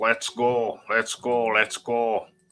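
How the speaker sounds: put-on accent from northern England. Host doing a sound check before the menu, in a northern English accent. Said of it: "That's my northern accent".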